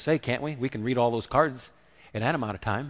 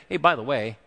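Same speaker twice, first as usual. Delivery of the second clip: offhand, polite by-the-way ask; imitating a too-casual plea; mock casual request. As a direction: toss it out like a minor favor. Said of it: "she just didn't come and say".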